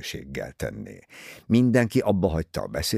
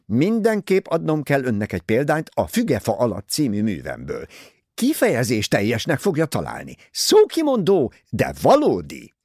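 higher, louder gushing society lady; Mrs Otterborn's voice; 6 semitones higher, 5 dB louder than usual. Acted. Vain novelist pressing her book on Poirot, high and gushing.

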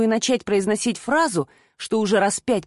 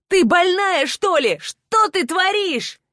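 furious man; 9 semitones higher, slower than usual. A narrator's reading. Man furious after falling.

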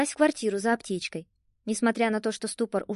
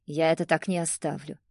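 hissed through teeth; 6 semitones lower than usual. Acted. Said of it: "прошипел бывший сквозь зубы".

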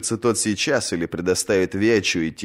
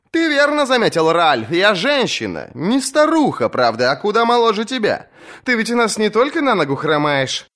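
much higher, scornful banter; mocking young woman; 13 semitones higher than usual. Asha mocks Ralf the Lame, high scornful voice. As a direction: cut the old man down with a joke.

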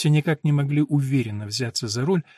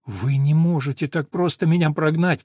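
near shout; 3 semitones higher, 4 dB louder than usual. Acted. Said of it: "почти что выкрикнула Элинор".

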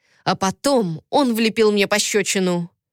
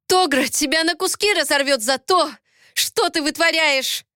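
growled threat; 7 semitones higher than usual. A narrator's reading. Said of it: "зарычала я".

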